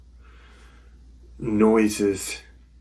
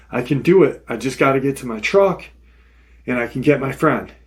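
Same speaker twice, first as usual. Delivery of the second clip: retold urgency, fast and slightly raised; urgent self-talk; 3 semitones higher, 3 dB louder, faster than usual. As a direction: rush it like talking yourself into a rescue. Retold frantic self-talk while fleeing.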